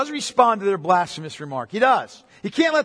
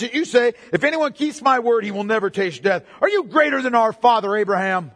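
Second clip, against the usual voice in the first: raised, accusing preacher's voice; indignant challenge; 4 semitones higher, 5 dB louder than usual. Acted. The Jews challenging Jesus over Abraham, indignant. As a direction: hurl it as an incredulous accusation.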